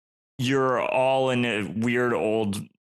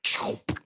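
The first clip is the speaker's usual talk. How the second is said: whooshing sound effect. Shown as a demonstration. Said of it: "make a sound like".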